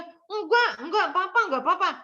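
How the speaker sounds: put-on high, nervous little-girl voice with a laugh; child's nervous denial. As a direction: play a frightened five-year-old brushing Grandma off, laughing nervously. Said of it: "Terus dia". (suara anak kecil yang gugup dan tinggi)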